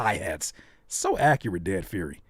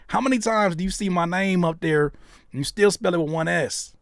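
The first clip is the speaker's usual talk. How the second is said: raised pitch, toned-down indignant complaint; milder mock outrage; 4 semitones higher than usual. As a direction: repeat the gripe with playful exasperation. Repeats the complaint less heatedly.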